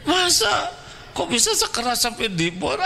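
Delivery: high, amused incredulous question; mock the absurdity with a grin; laughing disbelief. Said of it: "itu ketawa tuh ya".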